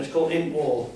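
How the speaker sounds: "In War" said in a broad Yorkshire accent; a quick Yorkshire twang on "In War". Shown as a demonstration. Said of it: "It's Yorkshire, isn't it?".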